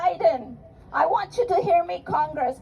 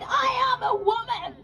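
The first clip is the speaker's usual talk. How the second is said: proud proclamation; 4 semitones higher than usual. Acted. Voices Taitu's proclamation.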